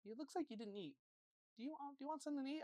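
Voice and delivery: soft, gentle imitation of a mom; nice mom. Friend's mom offering the boy food, soft and nice. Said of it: "she was really nice".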